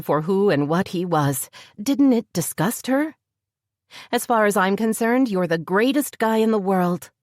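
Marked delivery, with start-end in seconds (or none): 4.1-7.1 lightly voiced woman, affectionate; a hint of a loving woman; Heather's voice. A narrator's reading. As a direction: read her lines a little higher and gentle. Heather speaks to Jim.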